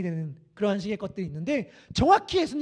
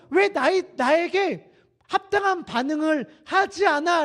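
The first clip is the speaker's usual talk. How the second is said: acted complaint, pitched up; higher-pitched mock protest; complaining children; 5 semitones higher, 3 dB louder, slower than usual. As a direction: complain to playmates who won't respond. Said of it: "라고 불평하는 아이들의 모습이".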